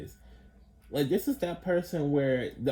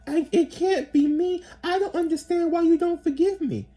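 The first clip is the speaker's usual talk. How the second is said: whiny mock plea; 5 dB louder than usual. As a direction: stretch it out in a high, wounded whine. Mocking the toxic one pleading.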